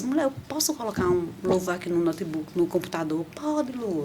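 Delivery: softly acted, low-volume exchange between colleagues; hushed request. Asking office colleagues to play a worship song, hushed. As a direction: keep it down, as if asking discreetly at work. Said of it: "eu falava baixinho".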